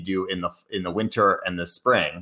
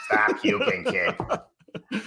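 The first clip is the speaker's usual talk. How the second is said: higher, 'puking' as stat puking in Boston; Boston accent; 12 semitones higher, much slower than usual. Retold or imitated. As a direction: lightly bark it like the Boston coach. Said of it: "that's how they say it".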